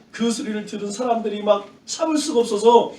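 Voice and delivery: normal talking voice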